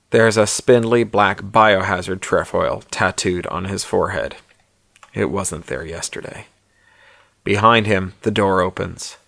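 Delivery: measured audiobook-style narration; story narration. A narrator's reading. Author reads his novella aloud to listeners, story narration.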